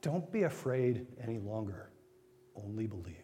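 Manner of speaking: reassuring Jesus. Retold or imitated. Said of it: "He says to the man".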